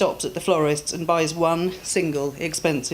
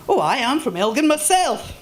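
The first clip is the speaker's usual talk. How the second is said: kindly Scottish voice, higher and louder; concerned Scottish man; 8 semitones higher, 4 dB louder than usual. Acted. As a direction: check on the fallen woman like a gruff kind Scot.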